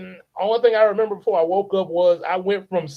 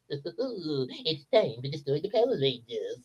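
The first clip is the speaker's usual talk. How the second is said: softer, put-on villain threat; monster voice; 3 semitones lower, 7 dB quieter than usual. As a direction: menace the Rangers quietly. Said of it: "how I imagine".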